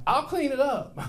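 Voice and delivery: sheepish quick reply. Retold or imitated. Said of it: "I'm like".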